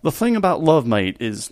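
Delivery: Australian accent, voiced tentatively; accidental Australian. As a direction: attempt a British gentleman, land on Australian. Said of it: "no, that's Australian".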